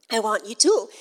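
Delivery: imitated Irish accent, vowel in "tall" towards "tool". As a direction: quote her in an Irish accent. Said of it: "she said it in your beautiful accent".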